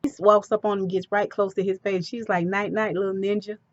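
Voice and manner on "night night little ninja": soft mock lullaby. Mock goodnight before knocking out.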